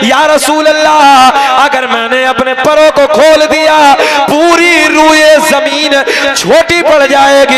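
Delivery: rhythmic chanted lineage, held at full preaching force; preaching recitation. Acted. Preacher reciting the lineage to the gathering, full preaching. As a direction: intone each name to the crowd like a sermon. Hadith with Jibreel's words.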